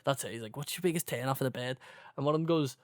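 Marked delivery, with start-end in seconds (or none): 0.6-1.8 quick, softer Scouse quote; Scouse lad. Retold or imitated. Retelling the lads' chat, in a light Scouse accent. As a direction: lightly imitate a Scouse lad asking his mate. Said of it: "it's just these Scouse lads".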